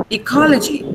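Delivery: "Ecology" stressed on CO, light final "gy"; "Ecology" as ee-KO-lo-jee. Shown as a demonstration. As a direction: keep the last syllable of "Ecology" unstressed. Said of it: "Don't stress G".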